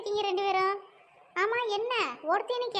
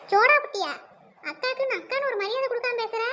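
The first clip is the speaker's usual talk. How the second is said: loud, offended question; indignant echo; 3 semitones higher, 5 dB louder than usual. Acted. Sister stung by the nickname, loud and indignant. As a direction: throw the insult back in loud disbelief.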